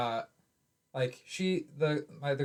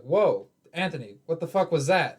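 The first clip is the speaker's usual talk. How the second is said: startled inner voice; 5 dB louder than usual. Retold or imitated. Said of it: "that was the first part in my head".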